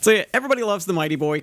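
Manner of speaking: infomercial guy. Pretend. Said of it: "you sound like an infomercial guy".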